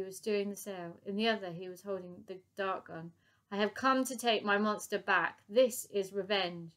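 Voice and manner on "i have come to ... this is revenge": loud, slow menacing threat; villain's threat. Acted. Professor threatening the ship crew, loud slow threat. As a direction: drag out the revenge line.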